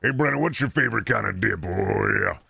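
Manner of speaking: lightly put-on drawling country chatter; a hint of a tobacco-dipping good old boy; playful redneck chatter voice; dip-chewing fella voice. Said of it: "I just like doing that voice".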